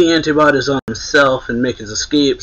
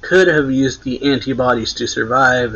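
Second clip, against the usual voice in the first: mild mock yell, a little raised; retold yell; 3 semitones higher, 4 dB louder than usual. Queen yells at the laughing crew, mild retold yell. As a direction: lightly imitate a boss yelling. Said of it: "Queen yells".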